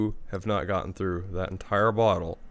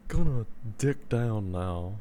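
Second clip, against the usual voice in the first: pillow talk voice; 2 semitones lower, 6 dB quieter, slower than usual. Shown as a demonstration. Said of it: "really good pillow talk voice".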